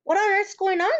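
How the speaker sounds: loud, high alarmed cry; cried out. A narrator's reading. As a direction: burst in shocked and alarmed. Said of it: "she cried".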